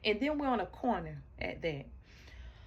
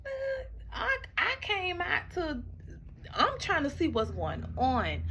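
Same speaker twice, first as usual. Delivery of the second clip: high, tearful voice breaking; crying; 10 semitones higher, 3 dB louder than usual. Real, not acted. Reliving the fight with her boyfriend, crying. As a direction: cry through the words, pitched high.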